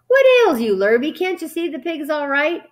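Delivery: exasperated bellow. A narrator's reading. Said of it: "bellowed Mister Zuckerman".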